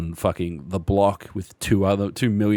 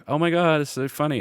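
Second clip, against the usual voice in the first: mock gushing customer; 7 semitones higher than usual. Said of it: "be like".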